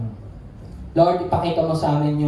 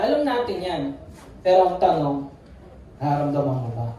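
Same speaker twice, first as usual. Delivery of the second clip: ordinary talk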